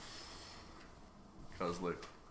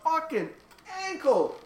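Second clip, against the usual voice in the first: high strained pained voice; talking through sudden pain; 8 dB louder, slower than usual. Real, not acted. Just hurt his ankle.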